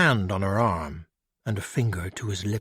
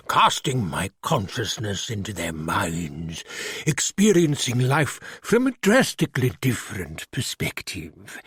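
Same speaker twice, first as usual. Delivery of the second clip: put-on slow, careful refined British accent; lightly voiced refined British creature; slower than usual. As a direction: speak like a polite English gentleman in a monster's body. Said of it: "with a refined British accent".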